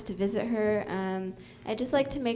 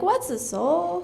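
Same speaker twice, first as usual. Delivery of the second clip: put-on confused kids; 8 semitones higher, 4 dB louder, slower than usual. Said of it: "And they'd be like".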